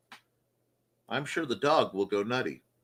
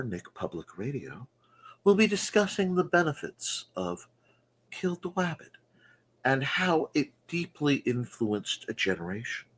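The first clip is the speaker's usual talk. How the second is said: mock radio announcer.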